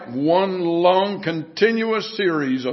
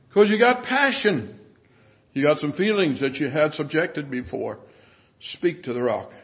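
calm, mild voice. Acted. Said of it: "calm, mild voice".

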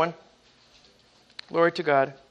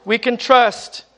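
fervent preaching. Acted. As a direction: preach it to the saints with fire. Preaching at full force.

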